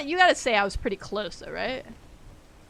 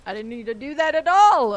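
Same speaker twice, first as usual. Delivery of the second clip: rising to a loud, high cry; frustrated outburst; 4 semitones higher, 11 dB louder than usual. Real, not acted. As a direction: build to a loud wail of regret. Regrets a mistake in game.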